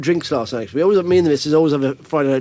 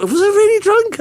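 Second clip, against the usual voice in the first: high, unsure self-question; second-guessing yourself; doubtful; 14 semitones higher, 3 dB louder than usual. Retold or imitated. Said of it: "I thought".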